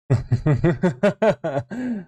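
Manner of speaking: 笑声; laughing. Real, not acted. Laughs at startled boom remark.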